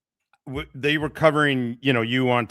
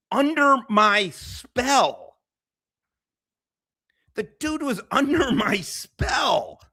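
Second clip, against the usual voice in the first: high, slow, laughing gloat; 10 semitones higher, slower than usual. Real, not acted. Streamer crowing about his rival, in high slow laughing delivery. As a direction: crow it through laughter.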